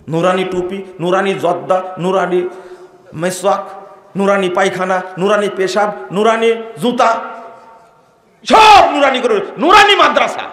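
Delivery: sarcastic list rising to a loud peak; mocking escalation. Real, not acted. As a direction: ridicule each nurani, building up.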